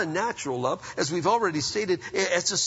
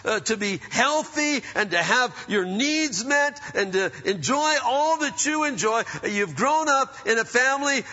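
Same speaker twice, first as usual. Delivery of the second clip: raised, higher scolding rant; parental tirade; 5 semitones higher, 3 dB louder than usual. Retold or imitated. Parent scolding bickering siblings, exasperated rant. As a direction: lecture the kids, pitch up, exasperated. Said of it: "You quit your tirade and get off your soapbox".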